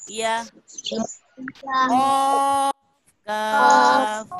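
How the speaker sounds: गौद, जीम, काफ said thick and full, drawn out; thick letters. Shown as a demonstration. Teacher showing the thick letters to the children. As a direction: round each letter out heavily. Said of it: "मिकदार के साथ मोटा पढ़ना है".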